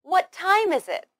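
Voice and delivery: high on "What time", falling away on "is it"; falling intonation. Shown as a demonstration. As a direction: stress "What" and "time", then let "is it" drop. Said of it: "use a falling intonation at the end".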